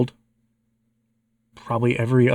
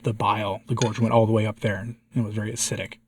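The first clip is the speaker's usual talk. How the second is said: hoarse voice after being sick; slightly hoarse, throat still raw; 5 dB quieter than usual. Real, not acted. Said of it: "my voice is still a little hoarse".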